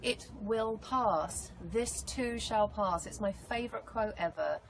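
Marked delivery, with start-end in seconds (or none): 0.0-3.0 slow, deliberate reassurance; reassuring. Real, not acted. Answering a young girl going through a hard time, slow and reassuring. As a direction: say it slowly, as a promise to hold on to.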